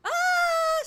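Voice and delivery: loud, high yelp of dismay; a sudden cry of annoyance; startled shout. Real, not acted. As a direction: blurt it out at full volume. Sudden mishap in game.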